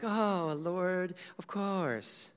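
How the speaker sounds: mock sarcastic oh lord of course, dragged and dropping; sarcasm. Shown as a demonstration. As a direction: say "of course" with a sneer. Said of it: "read that with sarcasm".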